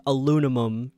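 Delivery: "aluminum" with N and M swapped, "a-LOO-na-mum"; mom's switched consonants. Retold or imitated. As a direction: say "aluminum" as "aloonamum". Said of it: "she switches the N and the M".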